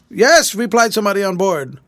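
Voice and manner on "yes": high, loud answering call; shouted reply. A narrator's reading. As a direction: holler back from the other boat. Shouted reply from the other boat.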